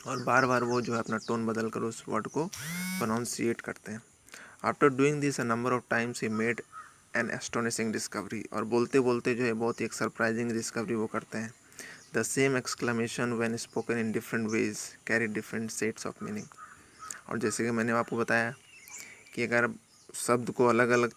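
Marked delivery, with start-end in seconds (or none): 4.6-8.5 slow deliberate read-aloud; lingering on each word; slow story reading. Acted. Teacher reading the story text slowly to students. 12.1-16.5 slow deliberate read-aloud; lingering on each word; slow story reading. Acted. Teacher reading the story text slowly to students.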